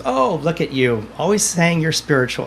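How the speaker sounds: imitated good-natured ribbing; joking mockery. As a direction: tease a pal for acting holy. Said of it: "they're joking with me".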